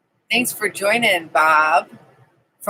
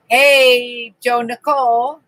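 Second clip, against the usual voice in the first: ordinary talk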